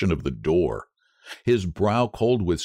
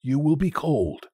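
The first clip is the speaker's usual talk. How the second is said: higher-voiced tender concern; 6 semitones higher than usual. A narrator's reading. Old man worries his wife will be cold, tenderly. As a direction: gently urge her back to bed. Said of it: "he said tenderly".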